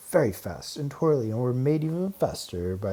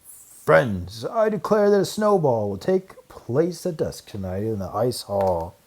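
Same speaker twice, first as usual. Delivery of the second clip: grand announcement; 6 dB louder than usual. Acted. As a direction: proclaim it to the gathered crowd. Announcing the snowball to mice.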